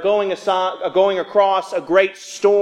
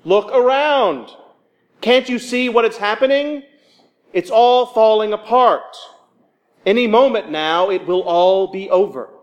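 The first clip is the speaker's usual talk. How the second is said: high, loud alarm that fades at the end; panicked pleading; 6 semitones higher, 4 dB louder than usual. Retold or imitated. Disciples yelling at sleeping Jesus in the storm, high and loud. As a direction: shout him awake as the boat sinks. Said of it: "I wonder if they were saying something more like".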